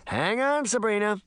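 high-pitched, eager call; mischievous heads-up, pitched well up; excited call. Acted. Puck calls out before the action.

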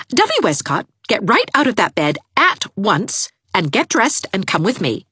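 put-on firm young woman; commanding Anne. A narrator's reading. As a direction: order her out of bed.

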